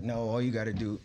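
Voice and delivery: imitating a matter-of-fact advisor. Manager advising a lost artist, matter-of-fact. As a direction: state it plainly, as if it were simple. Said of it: "he would say it so matter of fact".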